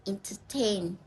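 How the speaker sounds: "entertain" with the beat on TAIN; stress on final syllable. Shown as a demonstration. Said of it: "then we stress in the final syllable".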